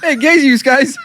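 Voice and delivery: hammed-up celebrity hello; mock Scott Baio. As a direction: play a dim, chummy teen idol. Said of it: "He's like".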